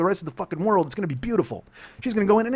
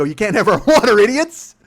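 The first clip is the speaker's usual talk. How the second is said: loud, high mock Arizona hillbilly; bad Arizona accent; 4 semitones higher, 7 dB louder than usual. Hillbilly navy warns Californians from canoes, bad Arizona accent. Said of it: "worst Arizona accent ever".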